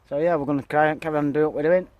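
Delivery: breathless after hard work; puffing between words; out of breath. Real, not acted. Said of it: "you can see I'm a bit out of breath".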